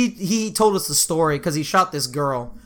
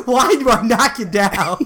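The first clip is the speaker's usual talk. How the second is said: retold question through laughter; 3 semitones higher than usual. Retelling friend's baffled question while laughing.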